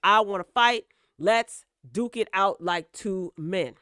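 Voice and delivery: mock fight challenge, punching up the volume midway; retold challenge. Rapper challenges a commentator to fight, retold defiant call-out. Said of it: "He told him".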